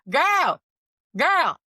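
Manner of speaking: high and loud, exasperated. Real, not acted. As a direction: call her out, loud and high-pitched. Reacting to her nervous client.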